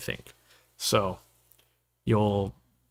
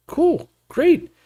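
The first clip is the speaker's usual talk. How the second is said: sarcastic cool; 13 semitones higher than usual. Real, not acted. Sarcastic reply to boast.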